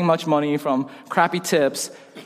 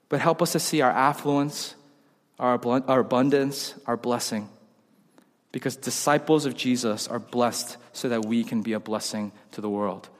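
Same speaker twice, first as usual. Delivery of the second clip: solemn preaching; 5 semitones lower, 6 dB quieter than usual. Real, not acted. Solemn close of sermon point.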